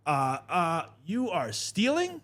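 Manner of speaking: put-on high, slow accusing old-lady voice; mocking the old lady. A man mocking the customer who filmed him stealing, high accusing voice. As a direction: mimic a shrill busybody catching a thief. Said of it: "she's like".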